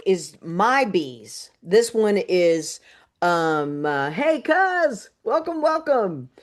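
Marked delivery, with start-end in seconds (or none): 4.1-6.3 high, delighted welcome to a cousin; excited greeting. Real, not acted. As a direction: greet her with a bright, high voice. Greeting cousin joining live.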